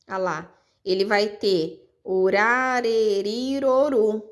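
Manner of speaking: "orareriroru" run together with a light tapped R; soft tapped R in "orareriroru"; soft R demo. Shown as a demonstration. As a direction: tap the R lightly through "orareriroru". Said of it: "aquele R brando".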